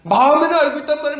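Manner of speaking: 마음에는 알고 있단 말이에요 loudly and fast, 알고 stressed; loud insistent preaching. Acted. Preacher repeats line twice, contrasting.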